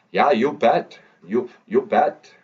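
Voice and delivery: put-on half-hearted Fargo movie accent. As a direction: try a Fargo accent, not quite getting it. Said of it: "I can't do the voice".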